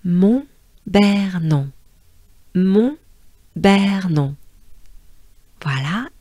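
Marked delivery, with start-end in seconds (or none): 0.0-4.4 Mont-Bernon said very slowly with nasals; slow French pronunciation. Shown as a demonstration. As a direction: draw out Mont-Bernon for learners. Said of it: "Take a good breath".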